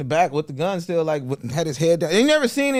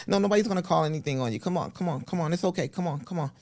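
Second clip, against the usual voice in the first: Mike Tyson; 2 semitones higher, 4 dB quieter, faster than usual. Retold or imitated. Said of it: "one of my favorite ones doing".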